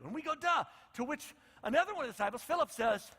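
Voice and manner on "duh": loud high mocking duh. Preacher mocking the disciples, loud duh. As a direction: scoff at the slow disciples. Mock obvious reaction.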